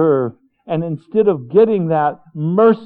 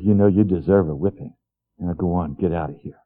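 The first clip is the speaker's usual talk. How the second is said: low, hushed, gently stern; a hint of a forgiving father sending him off; merciful father voice; 7 semitones lower, faster than usual.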